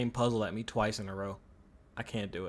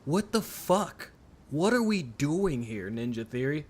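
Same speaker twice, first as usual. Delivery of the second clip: exasperated; 2 semitones higher than usual. Real, not acted. Streamer ranting at repeated puzzle.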